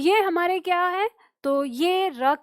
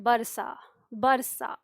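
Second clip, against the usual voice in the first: easy relaxed word; 3 semitones lower, much slower than usual. Shown as a demonstration. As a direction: let बरसा slip out easily. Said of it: "बहुत आराम से". (बरसा बहुत आराम से)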